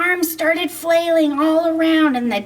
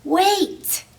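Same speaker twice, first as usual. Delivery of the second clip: shout; 7 semitones higher than usual. Acted. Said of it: "heard the dino shout".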